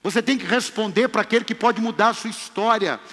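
loud, high preaching build to a shout. Acted. Preacher rousing the congregation, full-force preaching.

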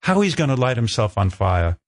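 lightly imitated British producer; matter-of-fact announcement in a rough British accent; amateur, half-done British accent. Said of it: "She had a British accent".

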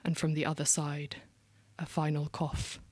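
dark performance poetry read with pauses, dipping into whispers; spoken-word poem. Acted. Poet performing her poem to the room, measured spoken-word delivery.

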